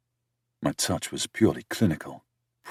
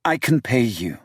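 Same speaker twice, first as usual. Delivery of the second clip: higher voice for the city woman, indignant; higher-pitched female character, accusing; 7 semitones higher, 4 dB louder than usual. A narrator's reading. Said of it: "she offered with a serious face".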